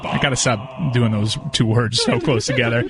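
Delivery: speaking muffled inside a helmet; muffled through mask. Real, not acted. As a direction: talk through a costume mask. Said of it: "Stop talking muffled through the mask".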